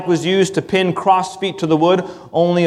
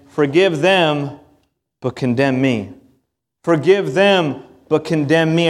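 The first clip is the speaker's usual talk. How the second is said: slow pleading prayer; 2 semitones lower than usual. Acted. Voicing Christ's plea.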